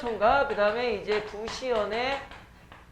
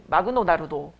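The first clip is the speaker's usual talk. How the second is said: put-on Japanese accent; 6 semitones lower than usual. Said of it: "일본어 흉내내는 되게 쉬운 유형".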